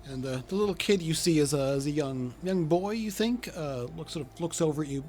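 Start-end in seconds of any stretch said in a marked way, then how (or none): none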